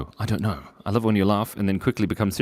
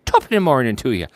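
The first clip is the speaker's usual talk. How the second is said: brief jokey Irish greeting; lightly put-on Irish accent; 3 semitones higher, 3 dB louder, faster than usual. Greeting a viewer from England, jokey Irish accent. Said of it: "That's Irish".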